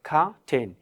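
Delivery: "খাটেন" with an aspirated kh and no r. Shown as a demonstration. Teacher answering what it should be, aspirated "খাটেন". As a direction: model "খাটেন" with a puff on kh. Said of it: "তাহলে কী হবে?".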